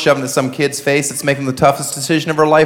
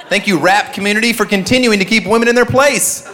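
dripping sarcastic thanks; heavy sarcasm; 6 semitones higher than usual. Acted. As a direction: say it with mock gratitude. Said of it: "he said with heavy sarcasm".

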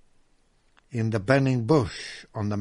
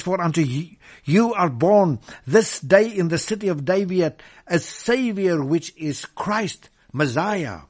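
louder and higher, building with joy; rising proclamation; 5 semitones higher, 7 dB louder than usual. Acted. Preacher to his congregation, proclaiming the angels' news loudly. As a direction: announce it like the angels. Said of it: "it says".

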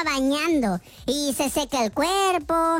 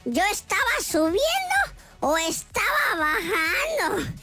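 slow, bewildered wondering to oneself; desconcierto actuado; 4 semitones higher, slower than usual. Acted. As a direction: puzzle it out slowly, mock-confused. Duda confundida, hablando consigo misma. (confusión fingida, hablando despacio)

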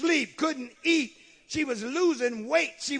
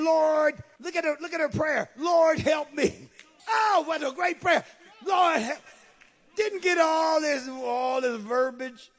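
preaching shout; 7 semitones higher, 5 dB louder than usual. Acted. Preaching at full force.

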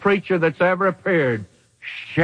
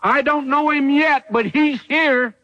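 fervent proclamation; 7 semitones higher than usual. Retold or imitated. John the Baptist telling the crowd one stands among them, fervent. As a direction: announce him with awe. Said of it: "John says".

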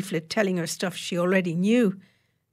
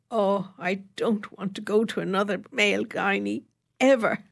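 demurring; 2 semitones higher than usual. Acted. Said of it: "Emma demurred".

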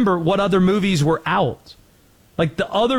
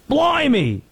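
British accent; 10 semitones higher than usual. Shown as a demonstration. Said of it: "awful British slash, should we say, Australian sounding accent".

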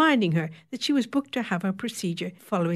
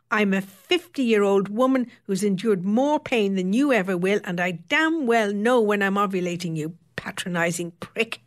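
a furious outburst, mildly raised; imagined roar; 2 semitones higher, 4 dB louder than usual. Acted. Woman imagines roaring at her dismissive gynaecologist, angrily. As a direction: tell the patronising doctor off, loud. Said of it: "roar at him".

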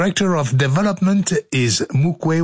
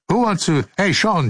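ordinary talk, nothing marked

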